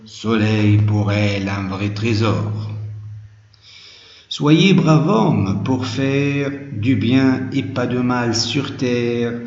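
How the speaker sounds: measured, declaimed poem reading; poem recitation. Shown as a demonstration. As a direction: recite it line by line, each opening lifted and settling at the end. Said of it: "je vais lire le poème".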